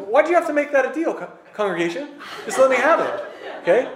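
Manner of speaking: high, laughing mock complaint to the crowd; laughing protest. Real, not acted. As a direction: tease them back through a laugh. Teasing the congregation about horns.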